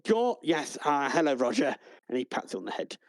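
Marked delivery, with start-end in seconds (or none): 0.1-1.7 lightly raised, fussy clerk voice; a hint of an apologetic receptionist; desk clerk voice. The desk clerk greets the arriving adventurers, lightly raised. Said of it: "He goes".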